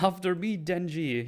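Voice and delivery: high, hammy heroic shout; high-pitched parody of a brave line; mock heroic call. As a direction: play it like a cheesy anime hero. Imitating character's heroic line.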